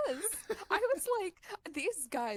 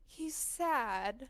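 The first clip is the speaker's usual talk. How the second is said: higher-pitched retold guilt trip; mock guilt-tripping; 4 semitones higher than usual. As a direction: imitate a girl pleading on his behalf. Acts out the guilt-tripping girl.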